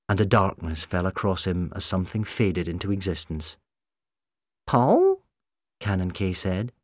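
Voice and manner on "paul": mild tremble on a much higher question; a shaken robot recognizing him; trembling. Acted. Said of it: "His mechanical voice seemed to tremble".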